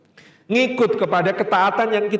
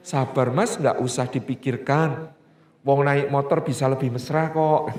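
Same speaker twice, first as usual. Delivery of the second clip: gentle soothing wife; 5 semitones lower, 3 dB quieter than usual. Retold or imitated. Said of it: "Kata istrinya".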